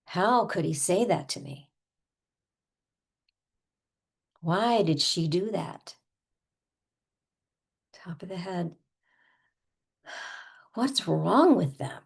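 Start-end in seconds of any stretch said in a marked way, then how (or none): 0.0-6.0 acted wounded disbelief; mildly hammed-up indignant questions; pretend indignation. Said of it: "we're gonna go over the top". 10.7-12.0 sighing, swooping mock outrage; sigh, then hit the question indignantly; played-up incredulous frustration; over-the-top exasperation. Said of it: "we're gonna go over the top".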